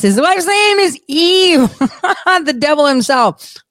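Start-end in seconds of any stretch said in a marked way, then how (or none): 0.0-1.8 high, slow, incredulous; amused disbelief. Real, not acted. Telling viewers Adam's wife is Eve, incredulous. 1.8-2.4 high quick chuckle; a brief amused laugh; short laugh. Real, not acted. Laughing at Adam and Eve, short chuckle.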